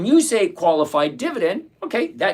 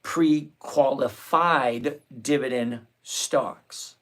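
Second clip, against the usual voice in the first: slow, spelled-out repeat; 2 semitones lower, much slower than usual. Shown as a demonstration. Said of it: "What I was saying".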